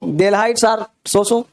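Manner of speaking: very slow, word by word; slow dictation. Shown as a demonstration. Teacher dictating example sentences to students, very slowly. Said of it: "example sentences".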